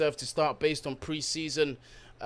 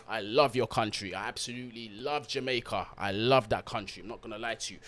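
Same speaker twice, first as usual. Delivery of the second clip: normal talking voice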